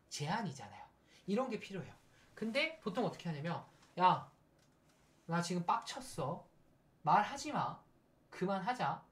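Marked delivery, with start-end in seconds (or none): 4.0-9.0 short bursts, first word loud; mildly annoyed shutting down of talk; acted irritated cut-off. Angry person refusing to talk, acted irritation. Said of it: "이렇게 말하는 거예요".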